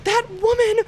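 high, mocking scream that slows at the end; retold screaming. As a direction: imitate the drunk woman yelling insults, way up high. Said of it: "and she's screaming".

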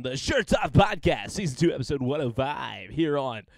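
slow mock-announcer sign-off; radio voice. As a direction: draw out the show title like a radio DJ. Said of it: "we just do radio voices".

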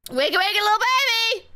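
a hint of a sing-song baby-talk voice, fast; teasing wake-up call. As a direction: lightly tease them awake like a nanny.

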